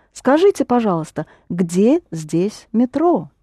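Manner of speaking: где здесь метро said slowly, word by word; slow model sentence. Shown as a demonstration. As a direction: spell the question out slowly for a learner. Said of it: "teacher repeats student's phrase".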